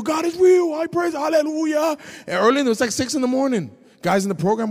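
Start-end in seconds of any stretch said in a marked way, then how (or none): 0.0-2.0 high, loud hallelujah cry; joyful shout. Retold or imitated. Newly saved man telling the program, loud and high. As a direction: shout the news to everyone. Retelling shouting God is real.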